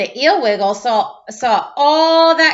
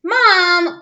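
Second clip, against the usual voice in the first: crying out; 7 semitones higher, 5 dB louder than usual. Acted. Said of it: "cried Clark".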